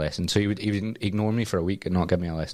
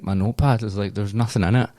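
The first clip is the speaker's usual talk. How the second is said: louder, indignant reply; louder retort; 2 semitones higher, 5 dB louder than usual. Retold or imitated. Talking back to the instructor, loud and indignant. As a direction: raise it, fed up and indignant.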